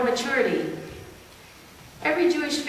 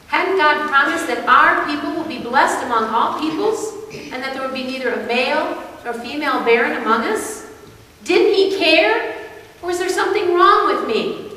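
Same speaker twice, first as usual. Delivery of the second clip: higher, louder, insistent questioning; anguished protest; 4 semitones higher, 5 dB louder than usual. Acted. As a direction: plead for an answer, hurt and rising. Character questions God's broken promise.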